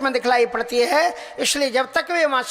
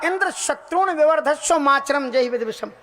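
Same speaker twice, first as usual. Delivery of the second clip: raised, flowing Sanskrit recitation; mantra recitation; 3 semitones higher than usual. Retold or imitated. Preacher voices Tvashta's mantra at the yajna, recited. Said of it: "उन्होंने मंत्र पढ़ा".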